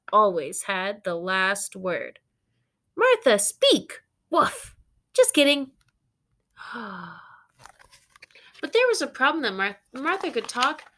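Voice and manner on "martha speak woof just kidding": teasing exchange. Acted. Doubter then dog teasing.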